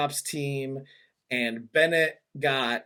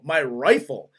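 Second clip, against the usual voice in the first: "My rifle?" asked back in mock disbelief; incredulous; 3 semitones lower than usual. Real, not acted. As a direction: repeat "My rifle?" as if it's absurd.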